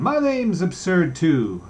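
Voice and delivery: playful boasting to a friend; gay voice. Acted. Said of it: "Buck Mulligan's gay voice went on".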